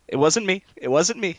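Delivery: panicked denial. Acted. Walder protesting his innocence after the neck snaps, high and loud. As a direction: squeal your innocence, hands up. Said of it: "He goes".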